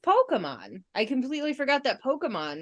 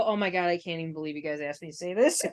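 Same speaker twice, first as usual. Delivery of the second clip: quick, soft quote through laughter; laughing quote; 6 semitones lower, 6 dB quieter, faster than usual. Retold or imitated. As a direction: rattle it off while giggling. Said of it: "she'll look at one and go".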